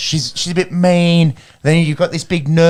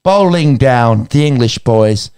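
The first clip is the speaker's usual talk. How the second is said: lightly voiced Gillian Anderson, American accent, barely shifted; a faint American accent as Gillian Anderson, reassuring Otis; Gillian Anderson impression. Mum character reassures Otis about his bowling, light American accent. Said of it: "that's me doing Gillian, um, Anderson".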